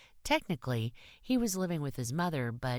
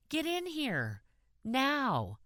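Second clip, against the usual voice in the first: sharp, much higher commanding yell; ordered shout; 11 semitones higher, much slower than usual. A narrator's reading. Kathy ordering the hitchhiking kid into her car, sharp shout. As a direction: bark the order at him. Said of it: "she ordered".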